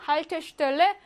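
"Haltestelle" stressed on Hal; compound front stress. Shown as a demonstration. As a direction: lean on the first word of "Haltestelle". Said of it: "앞에 강세가 오고요".

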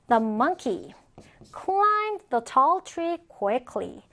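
slow, pausing after "monkey"; deliberate reading with a clear break after "monkey"; phrase by phrase. Shown as a demonstration. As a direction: model it in chunks for learners. Teacher models sentence in two pieces.

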